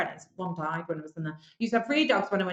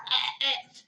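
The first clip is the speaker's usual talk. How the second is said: strangled higher-pitched stutter; tongue-tied stammering noise; 5 semitones higher than usual. Retold or imitated. Contestant recalls Lord Sugar speaking to her, tongue-tied. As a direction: imitate being lost for words.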